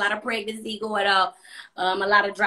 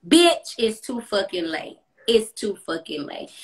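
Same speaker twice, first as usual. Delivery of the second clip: dragged, emphatic brush-off; slow drawn-out retort; slower than usual. Retold or imitated. Telling the ex it is over, slow and emphatic. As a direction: stretch it out to shut him down.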